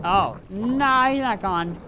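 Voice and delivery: ordinary delivery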